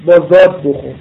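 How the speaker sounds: زاد hit clearly and firmly; teacher stressing زاد. Shown as a demonstration. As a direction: lean on the letter زاد. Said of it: "حضرمی رو بخون به زاد المعجمه".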